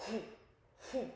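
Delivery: short breathy "whoo" for a churning stomach; two separate whooshes, imitating cramps; imitated stomach squeeze. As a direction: mimic your stomach clenching with quick whoos. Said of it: "feel my stomach just going like".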